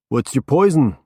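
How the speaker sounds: offhand stoner invite; stoner accent. A narrator's reading. Stoned Norman waving the detective to a seat, stoner accent.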